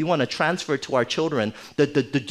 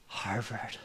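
breathless, much softer whisper of "Harvard"; whispered hint; 6 semitones lower, 14 dB quieter than usual. Shown as a demonstration. Parent hinting at Harvard to the child, whispered. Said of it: "but you sigh".

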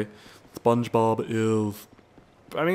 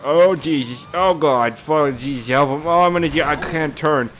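panicked yelling; 3 semitones higher, 5 dB louder than usual. Real, not acted. Getting shot in game.

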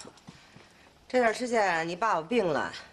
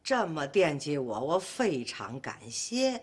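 slow, lower read-aloud; halting letter reading; 5 semitones lower, slower than usual. Acted. Wife reads thanks addressed to herself, slow and sheepish.

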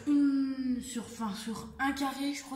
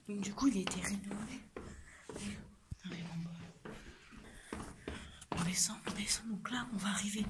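whispering; 5 dB quieter than usual. Real, not acted.

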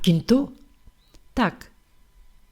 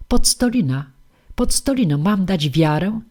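indignant call; 4 dB louder than usual. Acted. Papkin rushes in, calling Podstolina in alarm. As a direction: call out her name in shock.

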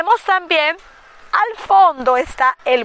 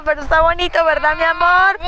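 higher, louder, cooing to the little one; 4 semitones higher, 3 dB louder, faster than usual. Real, not acted. Grandmother coos to her grandson on the windy lookout, sweet baby talk.

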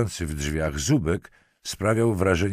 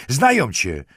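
high, louder menacing jab; 7 semitones higher, 7 dB louder than usual. A narrator's reading. Lieutenant menaces the girl at close range, menacing. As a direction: throw it at them as a raised threat. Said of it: "wysyczał jej do ucha".

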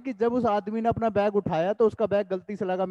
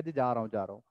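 meek apology; 9 semitones lower, 7 dB quieter, faster than usual. Retold or imitated. Meek retreat from girls' coach.

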